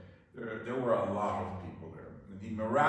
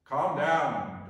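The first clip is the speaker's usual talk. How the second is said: louder acted call to calm; 3 semitones higher, 7 dB louder than usual. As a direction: call out firmly over the wind, acted. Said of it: "Jesus cries out and says".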